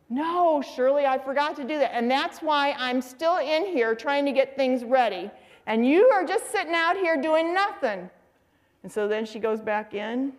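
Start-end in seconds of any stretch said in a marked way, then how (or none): 0.1-1.9 lightly voiced sheepish dad; a hint of a husband admitting he forgot; mock-innocent husband. Dad answers scolding wife. 1.9-8.1 lightly imitated exasperated wife, rising on the accusation; a touch of fed-up complaint at your husband; scolding mother. Acted quarrel, mother complains.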